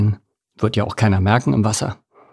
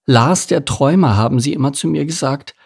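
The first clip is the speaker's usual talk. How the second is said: despairing thought; 5 semitones higher than usual. Acted. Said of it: "dachte er verzweifelt".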